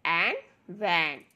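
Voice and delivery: drawn-out blending into मैन; slow phonics blend. Shown as a demonstration. Teacher blending sounds slowly for children.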